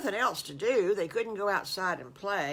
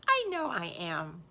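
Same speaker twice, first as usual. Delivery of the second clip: whisper. Acted. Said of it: "and he says".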